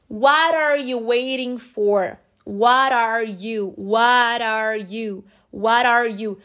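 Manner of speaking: "What are you" as "wara-you", slowly; flapped T. Shown as a demonstration. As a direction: link "What are" with the T as a quick R. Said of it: "sonzinho aí do R". ("What are you" com T soando como R)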